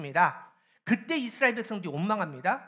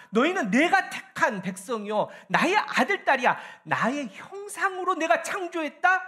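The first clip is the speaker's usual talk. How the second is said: loud, emphatic proclamation in God's voice; God rallying his people; 6 semitones higher, 7 dB louder than usual. Acted. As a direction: declare it high and strong, phrase by phrase. (백성을 일으켜 세우듯 크고 힘찬 선포)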